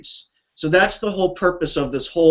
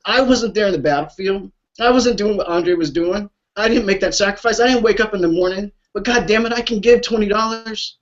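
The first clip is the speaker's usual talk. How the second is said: higher, choked-up and upset; pouring out real feeling for the vets; real emotion pushing the voice higher; emotional; 5 semitones higher than usual. Real, not acted. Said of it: "So I'm sorry to get emotional".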